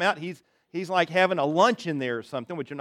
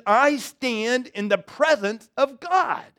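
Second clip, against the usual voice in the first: slow, higher, weighty angel pronouncement; the archangel proclaiming his commission from God; solemn Gabriel; 6 semitones higher, slower than usual. Acted. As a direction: lay down each word like a royal decree. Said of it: "He says, he says".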